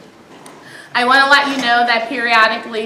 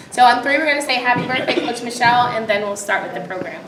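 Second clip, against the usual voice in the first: coach voice. Real, not acted. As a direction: call the count out to the room. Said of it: "in true coach form".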